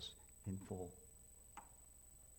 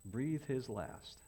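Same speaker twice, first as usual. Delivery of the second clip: slow emphatic; 2 semitones higher, much slower than usual. Shown as a demonstration. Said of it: "Want to hear something really strange?".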